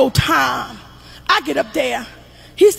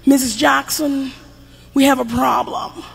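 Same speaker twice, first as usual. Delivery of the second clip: professional teacher voice. Retold or imitated. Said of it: "she got real professional with me".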